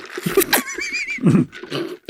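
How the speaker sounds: demonstrative coffee slurp; slurping sound. Shown as a demonstration. On request with the coffee, a slurping sound. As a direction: slurp from the cup. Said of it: "I'm gonna need a slurping sound".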